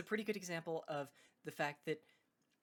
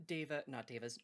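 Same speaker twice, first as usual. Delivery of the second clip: talking through hiccups; words broken by hiccups; hiccuping. Real, not acted. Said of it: "sorry, I'm hiccuping".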